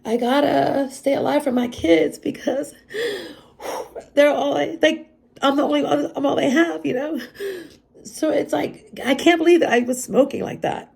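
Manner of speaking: high, choked-up pleading through tears; real tearful voice. Real, not acted. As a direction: voice rising as you fight back crying. Breaks up speaking of her kids.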